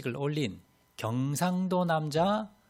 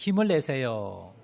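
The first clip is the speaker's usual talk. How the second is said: cheering greeting; 4 dB louder, slower than usual. Shown as a demonstration. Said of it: "인사해 주시기 바랍니다".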